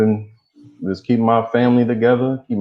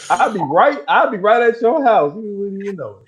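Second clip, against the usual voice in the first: whisper yelling; 12 semitones higher, 3 dB louder than usual. Real, not acted. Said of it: "he got a quiet yell".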